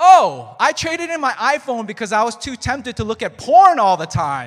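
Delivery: mock loud male talking. Retelling what a guy sitting next to them said, imitating him talking loudly. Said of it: "can you keep it down?".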